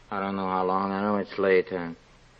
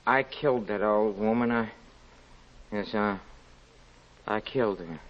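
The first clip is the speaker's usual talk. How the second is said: hushed confession; 5 semitones lower, 7 dB quieter than usual. Acted. Confessing murder to Sonia.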